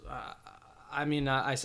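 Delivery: stammering and at a loss for words; dumbfounded, words won't come; speechless. Real, not acted. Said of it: "I know I sound speechless right now".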